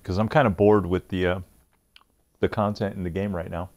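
talking through a mouthful of food; chewing while talking. Real, not acted. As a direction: mouth full while speaking. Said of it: "excuse the chewing".

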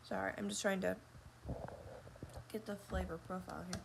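talking between sips of coffee; speaking right after a sip; just sipped coffee. Real, not acted. Seen 0: Mug at lips at 0.1, then talks holding coffee mug.

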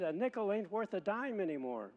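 quoting Yogi Berra. Retold or imitated. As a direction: lift the pitch for his saying. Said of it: "He said".

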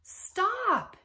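high, loud, panicked yell; full-voiced storybook shout. A narrator's reading. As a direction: yell it out as one desperate command. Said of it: "yelled Big Anthony".

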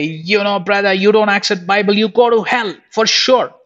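harsh, pushy mock of his younger self, pitch rising toward the end; rough preaching. Preacher imitating his old self scolding a brother, harsh. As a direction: lecture a brother bluntly, half-mocking your old self. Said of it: "rough way".

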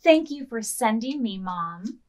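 gentle storybook reading for little listeners; reading to children. A narrator's reading. Librarian reading a picture book to children, gently. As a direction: read it slowly to a group of kids.

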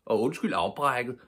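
polite apology. A narrator's reading. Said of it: "tilføjede hun".

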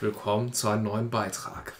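low, soft eerie greeting at night; creepy stranger. Retold or imitated. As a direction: spook the listener with a low voice. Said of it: "scheint und dann sagt".

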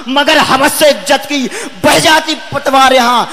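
rhythmic, accusing verse delivery; forceful poem declamation. Acted. Poet accusing silent society and governments, forceful declamation. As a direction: drive each rhymed line at the crowd.

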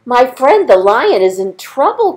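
mouse crying out. Acted. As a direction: call out in a tiny worried voice. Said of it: "cried the mouse".

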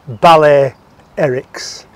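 "Ballet Erics" said slowly, split in two; "Ballet Erics" like ballet plus Eric. Shown as a demonstration. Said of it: "B A L L E T E R I C S".

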